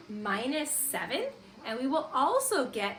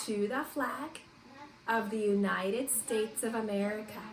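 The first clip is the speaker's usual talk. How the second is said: recited pledge; 3 semitones lower, 4 dB quieter than usual. Shown as a demonstration. Teacher leading the class through the Pledge of Allegiance, recited. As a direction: lead the pledge phrase by phrase. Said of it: "Ready, begin".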